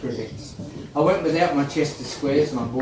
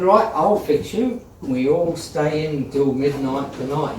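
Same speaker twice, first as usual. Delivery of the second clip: angry stern teacher; 3 semitones higher, 5 dB louder than usual. Retold or imitated. Teacher quoted punishing class.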